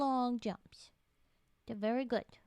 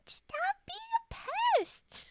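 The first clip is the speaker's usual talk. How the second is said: high whispered mock scold; 3 dB louder, slower than usual. Scolding the pink tiger in a high whisper. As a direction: squeak out the scolding.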